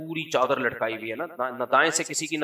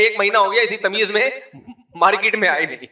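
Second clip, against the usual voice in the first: laughing punchline; 5 semitones higher, 4 dB louder, faster than usual. Retold or imitated. Punchline of twins joke.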